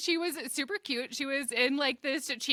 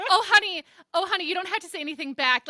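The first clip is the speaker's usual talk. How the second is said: fast, high, louder gushing "oh, honey"; mock-sweet lady brushing it off; sweet stranger; 4 semitones higher, 4 dB louder, faster than usual. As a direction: rush to reassure like a syrupy stranger. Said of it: "And she goes".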